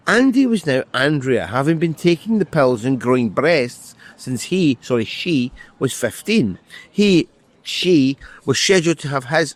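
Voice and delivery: steady, measured reading of his own prose; novel reading. Acted. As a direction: read it like an author at a book launch. Author reads his novel aloud.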